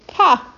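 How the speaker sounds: short, high, loud mock laugh; one punched "Ha!" of gloating; triumphant "ha". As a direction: crow it in a single burst. Acts out the answerers' triumph.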